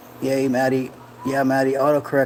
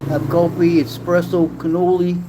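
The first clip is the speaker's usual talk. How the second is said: higher, punchy Italian-American voice; mock Italian accent; 5 semitones higher than usual. Streamer returns to the coffee joke, mock Italian-American accent. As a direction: call it out in hammy Italian. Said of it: "I am Italian".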